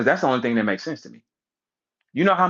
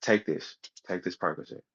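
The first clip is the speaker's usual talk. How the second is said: soft offer; 3 semitones lower than usual. Retold or imitated. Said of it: "She said".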